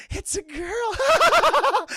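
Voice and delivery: high, loud, drawn-out joyful shout; ecstatic shout. Retold or imitated. Andre proudly announcing the baby, drawn-out shout. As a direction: announce it to the world.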